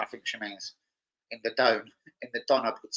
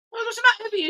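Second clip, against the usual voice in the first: retold freak-out; 3 dB louder, faster than usual. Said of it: "he starts flipping out".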